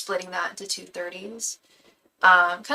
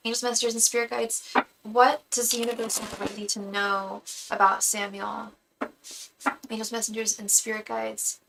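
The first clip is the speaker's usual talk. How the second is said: murmured invocation. Acted. Tarot invocation while shuffling.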